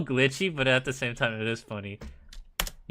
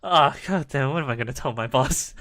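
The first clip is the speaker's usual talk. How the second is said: quick panic; 4 dB louder than usual. Retold or imitated. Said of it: "And third one".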